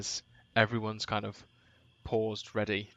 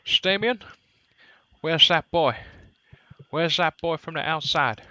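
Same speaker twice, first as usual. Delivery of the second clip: raised, higher, louder character voice; shouting over; 6 semitones higher, 8 dB louder than usual. Acted. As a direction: shout it across to someone. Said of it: "sort of shouts over".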